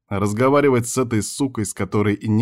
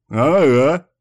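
louder, higher gleeful agreement; chortling; 6 semitones higher, 6 dB louder than usual. A narrator's reading. Friend enjoying the insult, gleeful. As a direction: crow it happily. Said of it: "хохотнул тот".

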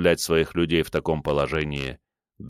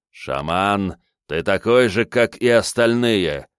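contemptuous; 2 semitones higher, 3 dB louder, slower than usual. Acted. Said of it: "презрительно бросил мужчина".

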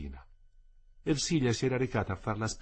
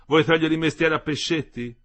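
raised, ironic teasing; affectionate irony; 6 semitones higher, 7 dB louder than usual. A narrator's reading. Wife compliments her husband, affectionately ironic. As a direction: pay a compliment disguised as a jibe. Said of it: "Era, ancorché ironico, un affettuoso complimento".

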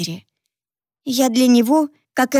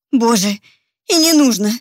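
a mother's quick relieved cry, a bit louder; exclaiming; 4 dB louder than usual. Acted. Mother cuts off her daughter on the phone, exclaiming. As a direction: cut her off, brushing the explanation aside. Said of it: "воскликнула Мэри".

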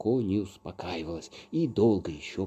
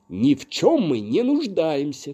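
loud, high-pitched retort; shouting back; 6 semitones higher, 6 dB louder than usual. A narrator's reading. Lin rejects the fairy's verdict, shouting. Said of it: "крикнул Лин".

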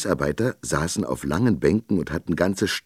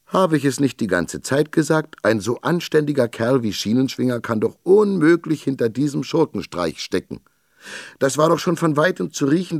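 much higher, pompous self-satisfied captain; triumphant captain; 7 semitones higher than usual. A narrator's reading. Captain boasts to his men, self-satisfied. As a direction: crow about being right all along.

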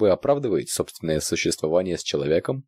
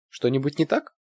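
high worried question; anxious; 9 semitones higher than usual. A narrator's reading. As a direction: ask nervously. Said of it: "встревожилась старшая продавщица".

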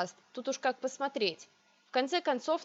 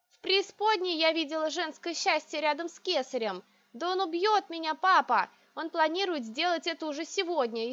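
shouting in despair; 6 semitones higher than usual. A narrator's reading. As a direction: scream the truth at father. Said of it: "Я сорвалась на крик". (отчаянный крик)

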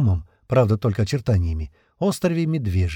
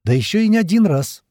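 higher, louder indignant queen; 9 semitones higher, 4 dB louder than usual. A narrator's reading. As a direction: pile on the reproach. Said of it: "добавила королева".

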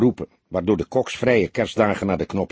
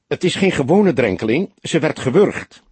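urgent; 6 semitones higher, 4 dB louder than usual. A narrator's reading. Urgent plea on the phone.

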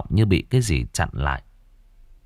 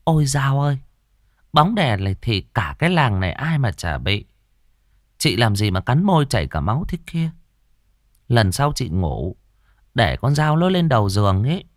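lightly voiced old woman, slightly higher; offhand granny chewing betel; a hint of a dismissive grandmother; smacking lips grandma; 5 semitones higher than usual. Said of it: "vừa nhai dầu vừa chẹp miệng".

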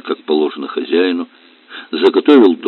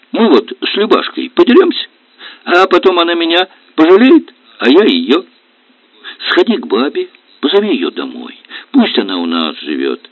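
high, lightly voiced boy; little son begging father to bring grandma home; pleading child; 8 semitones higher than usual. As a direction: coax dad to make up.

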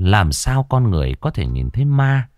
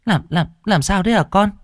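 much higher, stammering in panic; frightened stammer; 12 semitones higher than usual. Acted. Parent panicking at the son's door, stammering. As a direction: stumble over the words in fright.

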